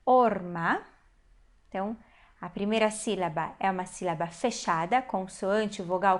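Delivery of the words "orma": "orma" split or-ma, rising at the end; demonstrated reading. Shown as a demonstration. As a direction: sound out "orma", O then A. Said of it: "nós temos aqui". ("orma" em duas sílabas, com entonação ascendente)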